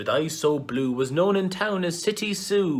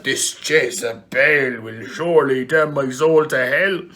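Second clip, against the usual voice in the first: louder, fearful exclamation; horrified exclaim; 7 dB louder than usual. Acted. Micheál fleeing the temptress, loud horrified cry. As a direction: cry it out in holy terror.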